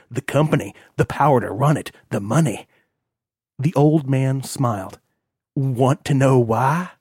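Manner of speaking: lightly voiced cold old man; a hint of a harsh patriarch; stern old father.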